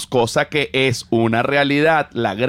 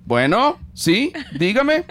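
mock phone call; 4 semitones higher than usual. Answering a credit card sales call, mock exasperated phone voice. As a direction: act fed up with a telemarketer.

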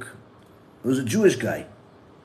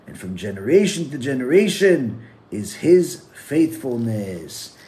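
solemn psalm reading. Acted. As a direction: read each verse deliberately, lingering on phrases. Translates the psalm aloud.

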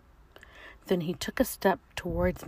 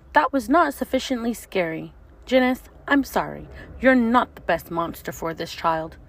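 teacher monster; 3 semitones higher, 5 dB louder than usual. Acted.

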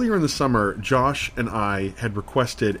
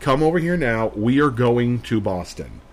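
insistent demand; 4 dB louder than usual. Retold or imitated. Insisting to friend.

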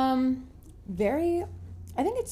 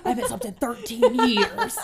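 put-on old lady voice; 3 semitones higher, 7 dB louder than usual. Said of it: "I am the Titanic lady".

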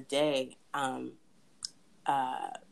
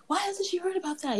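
Nigerian dad. Retold or imitated. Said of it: "my dad was like".

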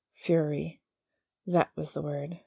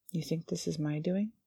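calm; 3 dB quieter than usual. Acted. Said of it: "his voice was calm".

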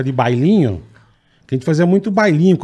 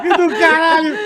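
higher, laughing through the words; 14 semitones higher than usual. Real, not acted. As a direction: crack up while saying it. Laughing hard at the story. (rindo muito)

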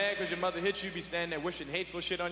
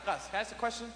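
put-on drunk father ranting; 4 semitones higher than usual. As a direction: rant like a drunk dad claiming his house. Drunk dad confronting Gus.

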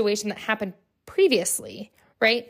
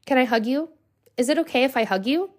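gentle offer; 3 semitones higher than usual. Retold or imitated. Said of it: "And so I ask her".

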